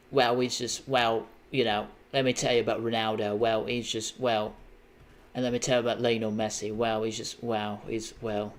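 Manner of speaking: a light hint of Beckham, hesitant and trailing; lightly imitating Beckham with halting wells; Beckham impression. Imitating Beckham for a friend, lightly voiced English accent. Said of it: "That's my Beckham impression".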